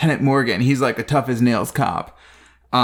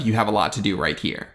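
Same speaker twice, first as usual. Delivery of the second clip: cheesy seductive line; 4 semitones lower, 4 dB quieter than usual. Retold or imitated. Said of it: "with that cheesy line of".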